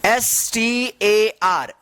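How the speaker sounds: each letter drawn out slowly; slow spelling out. Shown as a demonstration. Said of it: "क्या पढ़ेंगे इसको?". (अक्षर-अक्षर धीमे से बोलना)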